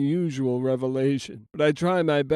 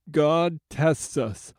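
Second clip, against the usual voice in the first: slow, firm and quiet, each word set down; steady him with calm resolve; soft and steely; slower than usual. Acted. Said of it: "in a soft and steely voice".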